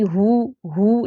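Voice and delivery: slow, drawn-out "ہو" with rounded oo; rounded oo sound. Shown as a demonstration. Teacher showing the sound behind pesh, rounded oo. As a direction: say "ہو" like English "who", stretched. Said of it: "جیسے ہو میں او کی sound".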